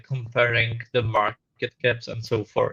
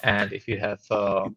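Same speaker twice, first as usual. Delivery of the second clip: muffled and static. Real, not acted. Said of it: "muffled and static".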